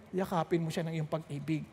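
low, soft plea to God; acted prayer. Asking God to embrace his angry friend, soft prayer. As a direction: gently ask God in prayer. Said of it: "nagpray na ako".

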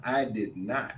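lightly imitated politician's solemn denial; Bill Clinton. Host jokingly denying beard dye, light Bill Clinton impression. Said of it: "in my Bill Clinton voice".

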